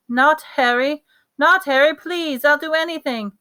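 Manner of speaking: high, loud desperate plea; desperate pleading. A narrator's reading. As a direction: beg for your child's life. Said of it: "his mother's voice was louder than ever".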